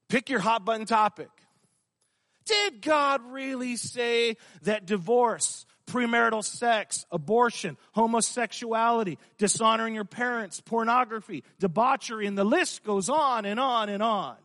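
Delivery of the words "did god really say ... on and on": building shouted question. Acted. Preacher builds list, Satan's question.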